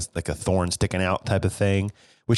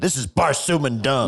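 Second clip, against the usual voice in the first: mock swearing; 6 semitones higher than usual. Co-host voicing the heroine cursing in her own universe, mock swearing. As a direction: pretend curse, pitched up. Voices a character using invented curse.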